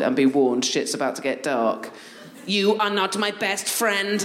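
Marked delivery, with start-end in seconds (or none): 2.4-4.2 put-on slow robot voice of a toddler; flat slow robotic toddler demand. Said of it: "in a robot voice".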